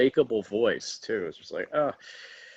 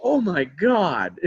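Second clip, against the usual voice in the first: starstruck gasp; 6 semitones higher, 5 dB louder, slower than usual. Retold or imitated. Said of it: "We're like".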